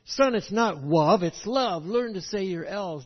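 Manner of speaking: father correcting his toddler's speech, mock stern; mock correcting parent. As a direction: lightly play a fussy dad correcting. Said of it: "not to correct his English".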